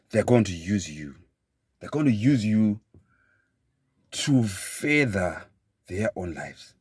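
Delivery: spaced out phrase by phrase with long pauses; slow, emphatic repeat. Shown as a demonstration. Speaker repeating a hard-hitting point to listeners, slow and emphatic. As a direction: drive each phrase home slowly, stretching "to further". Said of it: "Let me repeat that slowly".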